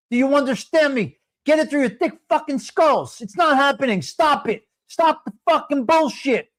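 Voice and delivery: a real fed-up rant; yelling. Real, not acted. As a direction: rail at them, fed up. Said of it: "I'm yelling".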